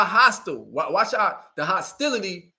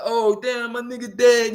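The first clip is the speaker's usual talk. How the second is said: higher, louder whiny mock wail; mock crying; 4 semitones higher, 3 dB louder than usual. Mocking a killer who cries over his homeboy, hammed-up whine. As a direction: mimic a grieving thug, hammed-up. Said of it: "You crying like".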